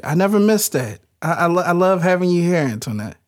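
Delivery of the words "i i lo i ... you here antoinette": mock teary, voice dropping away; fake crying. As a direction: playfully pretend to choke up. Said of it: "But I was fake crying this time".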